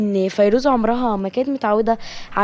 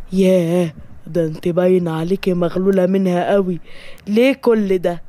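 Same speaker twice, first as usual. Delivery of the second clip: lower, taken-aback voice; lightly voiced listener; 4 semitones lower than usual. Asking the jealous girl why all this, lightly voiced probing.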